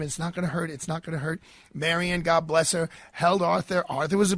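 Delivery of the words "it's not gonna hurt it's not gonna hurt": put-on softer, soothing a frightened child; calm him down gently, softly; reassuring promise. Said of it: "And I'm promising him".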